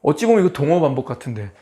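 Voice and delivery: normal talking voice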